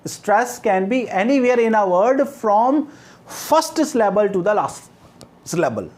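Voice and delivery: very slow, each word spelled out for notes; slow dictation. Shown as a demonstration. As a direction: dictate it word by word so they can write. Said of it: "I repeat".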